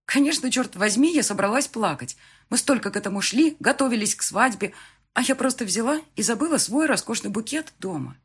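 high, agitated lament; upset, near tears. A narrator's reading. Bride blaming herself over forgotten bouquet, upset. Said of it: "прогоняя слёзы".

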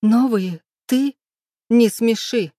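high, loud, incredulous scorn; scornful, tearful mockery. A narrator's reading. Woman scoffing at her lover's offer, loud and derisive. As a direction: throw it back high and loud, mocking. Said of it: "Расхохоталась сквозь слёзы".

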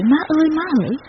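high crying call for mother; wailing call. A narrator's reading. Baby brother wailing for his mother, high crying call. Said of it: "cứ quơ tay khóc thét".

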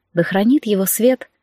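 usual speaking voice

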